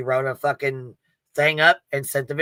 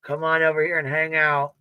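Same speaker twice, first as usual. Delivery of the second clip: mocking quote; 3 semitones higher than usual. Mocking the crowd who just say it is all fine. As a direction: parrot a carefree shrug-it-off attitude. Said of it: "we're just supposed to be like".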